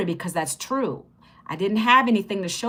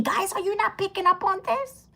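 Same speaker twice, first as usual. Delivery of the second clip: hushed whisper to the viewers; whispered aside; 10 semitones higher, 4 dB quieter than usual. Real, not acted. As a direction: lean in and whisper the secret. Conspiratorial aside to live viewers.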